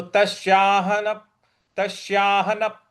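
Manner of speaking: तस्याहन cut off on a closed p; stress toward following प. Shown as a demonstration. Teacher showing the stroke, तस्याहन closing on p. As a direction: intone तस्याहन, stopping firmly into प. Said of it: "उस पर हमको बल लगाना है".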